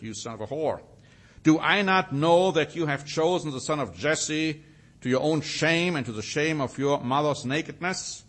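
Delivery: a hint of furious king, read a bit forcefully; understated angry Saul condemning David; mild angry tirade. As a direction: press the threat home with some heat. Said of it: "it shows the anger Saul had".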